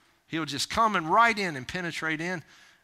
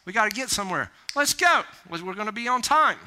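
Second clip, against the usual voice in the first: acted impatient parent; parent hurrying kids; 3 semitones higher than usual. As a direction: round up the kids to leave. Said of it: "I tell our kids sometimes".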